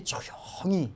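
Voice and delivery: very soft, drawn-out hush. Shown as a demonstration. Preacher describing God's history flowing on, hushed. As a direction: drop right down on the word. Word acted out as God's quiet working.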